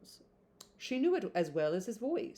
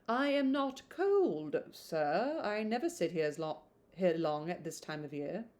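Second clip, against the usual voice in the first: hesitant reply. Acted. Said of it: "She hesitated".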